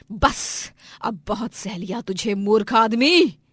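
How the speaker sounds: controlled anger rising to a loud insult; furious defiance. Acted. Wife has had enough of husband, defiant and furious. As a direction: build to a loud, drawn-out insult.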